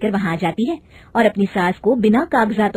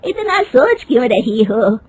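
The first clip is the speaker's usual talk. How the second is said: lightly voiced old mother-in-law, slow and probing; unhurried, nosy elder of the house; slower than usual. Mother-in-law questioning her daughter-in-law, lightly voiced slow probing.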